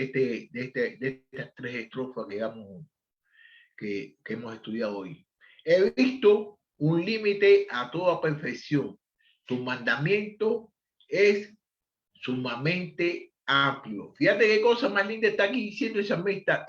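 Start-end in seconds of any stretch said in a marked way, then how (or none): 5.6-14.1 slow, deliberate reading of the verse; solemn scripture reading. Acted. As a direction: read the psalm slowly and weightily. Reads the verse aloud.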